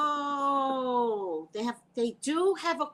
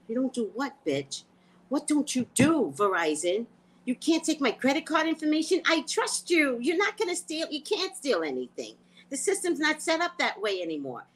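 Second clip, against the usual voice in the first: mock indignant rant; 4 semitones higher than usual. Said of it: "I was like".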